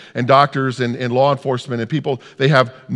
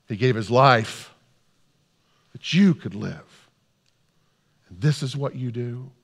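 upset, hushed reproach; 3 dB quieter than usual. Acted. Parent reproaches those living by the son's sacrifice, upset. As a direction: let the protest sink to a pained reproach. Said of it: "you get really concerned and upset".

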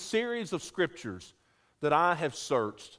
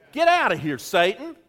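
congregational call; 4 semitones higher, 5 dB louder than usual. Shown as a demonstration. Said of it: "Say that with me".

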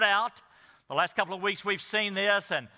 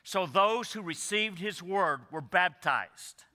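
measured public Bible reading with pauses between phrases; scripture reading. Real, not acted. Preacher reads the passage to standing congregation, measured scripture reading. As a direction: read it out solemnly, phrase by phrase.

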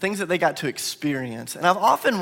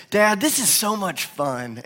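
retelling the son's line, slower, a little higher; quoting the little boy's words gently; son's delight; 4 semitones higher, slower than usual. Retold or imitated. Dad retells his son's words, mildly childlike. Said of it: "he'll kinda make this little face".

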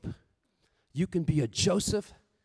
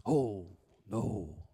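Larry; 14 semitones lower, 9 dB quieter than usual. Retold or imitated. Larry denies eating lunches.

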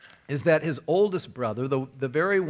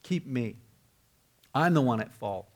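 softly retold begging. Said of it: "and he begged him, and he pleaded".

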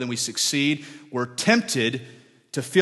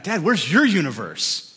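put-on excited child asking; 5 semitones higher, 7 dB louder than usual.

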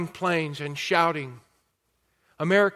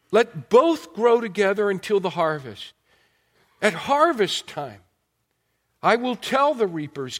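scripture reading; 2 semitones higher than usual. Acted. Reads scripture aloud.

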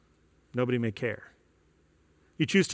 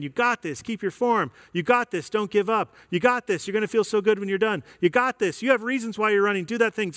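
upbeat, fast cheering coach; encouraging coach; 5 semitones higher than usual. Retold or imitated. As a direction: pump them up like a trainer. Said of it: "the coach ... saying".

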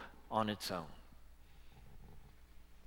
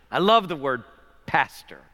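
emphatic love; 8 dB louder than usual. Acted. Preacher savoring a favorite word.

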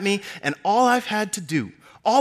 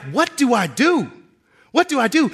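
anguished cry; 6 semitones higher, 4 dB louder than usual. Acted. Moses torn, acted inner cry.

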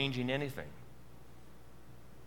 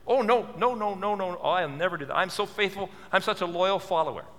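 mock protesting; 4 semitones higher than usual. Preacher plays the disciple denying the prediction, mock earnest protest. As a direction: protest too much, as the boastful disciple. Voices Peter's overconfident denial.

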